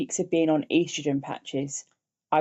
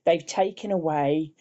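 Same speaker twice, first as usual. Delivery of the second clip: slowing, real emotion catching in the voice; a touch of real grief, slowed; emotional. Real, not acted. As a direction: relive the despair, holding back tears. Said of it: "sorry, I'm getting emotional now".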